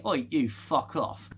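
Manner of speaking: joking cheeky telling-off; mock indignant retort. Alien species telling the ship to get lost, mock indignant. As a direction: play a mildly rude alien brush-off. Acts out aliens swearing in signal.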